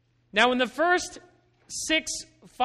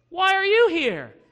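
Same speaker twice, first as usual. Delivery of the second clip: God demanding; 8 semitones higher, 7 dB louder than usual. Retold or imitated. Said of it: "and God says".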